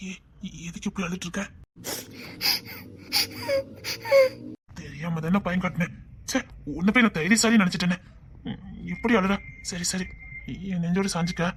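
calm her down tenderly; soft, tender reassurance; soft comforting. Acted. Soothing crying girl softly.

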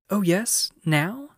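put-on high, loud, eager child; eager excitement. A narrator's reading. Lucy jumping up and clapping her hands, eager excitement. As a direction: burst in eagerly, pitch jumping up. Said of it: "jumping up and clapping her hands".

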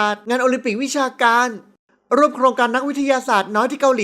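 lightly voiced boastful daughter; boastful young daughter. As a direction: reel it off like a proud girl. Daughter lists her achievements.

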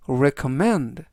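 recommend with the stress on the last syllable, mend. Shown as a demonstration. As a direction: land on the final E in recommend. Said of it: "E의 강세가 있습니다".

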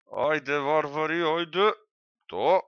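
urging barbarians. Real, not acted.

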